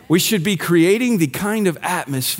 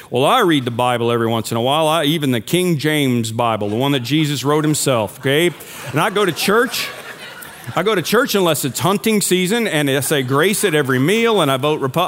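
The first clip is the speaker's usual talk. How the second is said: put-on Kentucky accent; 3 semitones lower than usual. Preacher imitating a self-righteous churchgoer, Kentucky accent. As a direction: play a self-satisfied churchgoer with a Kentucky twang. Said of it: "always go into Kentucky accent".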